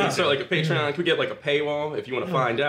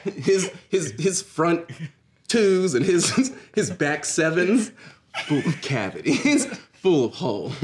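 menacing behind-you promo; 4 semitones higher than usual. Acted. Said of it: "directly behind their opponent".

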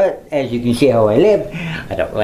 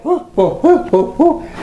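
mock surprise; 12 semitones higher than usual. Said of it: "See, like".

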